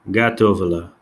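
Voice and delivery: "готовила" echoed in Russian as "gatovila", stress on the second syllable; careful Russian repeat. Shown as a demonstration. Learner echoing the reader, saying "готовила" carefully. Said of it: "make sure that you're getting close to the pronunciation".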